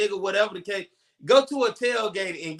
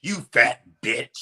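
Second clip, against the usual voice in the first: slow, lower, hammed-up shouted insult; mock shouted insult; 9 semitones lower, slower than usual. Reenacting the host's insult, a slow hammed-up shout. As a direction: bellow it like the TV host.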